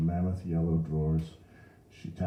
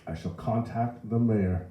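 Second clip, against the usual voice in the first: slow, raised pompous threat; mildly shouted indignation; shouting; 6 semitones higher, 4 dB louder, slower than usual. A narrator's reading. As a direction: proclaim it slowly over the crowd. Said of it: "Ignatius was shouting".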